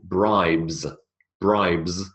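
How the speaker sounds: "bribes" slow, ending in a clear bz; slow model word. Shown as a demonstration. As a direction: model "bribes" twice for repeating. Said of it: "The B sound".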